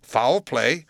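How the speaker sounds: frightened cry. A narrator's reading. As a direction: cry out, startled and a little irritated. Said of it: "cried the lawyer, a good deal frightened".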